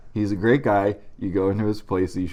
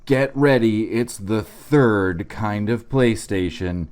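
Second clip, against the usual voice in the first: mock ad read. Fake sponsor ad read.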